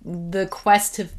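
slowed, catching on saliva; words caught in the throat; choking on spit. Real, not acted. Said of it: "sorry, I'm choking on my own spit".

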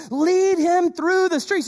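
a self-important strut in the voice; strutting Haman. Retold or imitated. Haman to the king, strutting over his own reward. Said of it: "You can just see him strutting".

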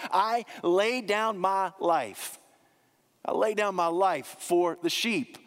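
slow, weighty stress on LAY; emphatic. Acted. Preacher voicing Jesus to the congregation, emphatic and slow. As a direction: lean hard on "lay" in "I lay down my life", slowed right down. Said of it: "Jesus emphatically says".

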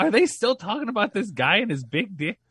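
high, loud mock disbelief; exaggerated high-pitched incredulity; mock incredulous outburst. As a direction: blurt it out as a baffled, fed-up listener. Imagined listeners' exasperated reaction.

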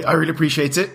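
strained, fading voice; losing voice. Real, not acted. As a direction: voice giving out. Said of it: "losing my voice at the end there".

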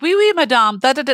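high, loud little Frenchman impression; mock French accent, pitched well up; French old man. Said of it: "there was this lovely little Frenchman".

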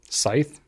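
"Scythe" said with a long i, rising; questioned pronunciation. Shown as a demonstration. Host checking co-host's correction, questioning long-i scythe. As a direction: query "Scythe" as rhyming with tithe, rising at the end. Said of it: "Is that what it's pronounced?".

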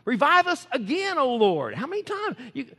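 pleading exhortation; fervent preaching cry. Real, not acted. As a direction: call it out to God. Preacher cries out prayer line.

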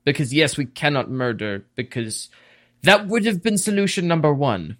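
a hint of a stern elven judge, measured; lightly voiced elf laying down the law; elvish official. Elvish official correcting a questioner about punishment, lightly in character.

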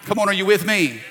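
rally the room with a shout; calling out. Real, not acted. A preacher shouting to his congregation for agreement.

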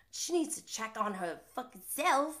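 badly faked accent, worked up; imitated worked-up accent, not very convincing; James Kennedy. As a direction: attempt his accent and miss. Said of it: "that wasn't a good accent".

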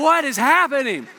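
bewildered question through a laugh; laughing disbelief. Retold or imitated. Pastor watching students rip open the sauce, laughing. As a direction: laugh it out, stunned at the chaos. Chaos as students grab chicken.

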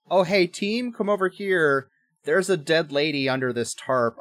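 high-pitched, casual call to the team; mock commander summoning colleagues; acted calling out. Commander calls the team over.

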